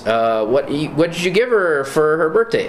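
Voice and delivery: high, chirpy ventriloquist voice; squeaky ventriloquist voice. Retold or imitated. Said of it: "Where he's, like, a ventriloquist dummy".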